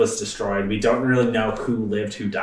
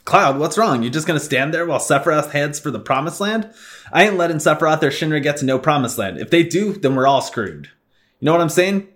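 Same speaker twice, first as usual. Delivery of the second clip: lightly voiced tough guy, louder; Barret voice; 5 semitones higher, 3 dB louder than usual. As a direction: read Barret's lines with swagger.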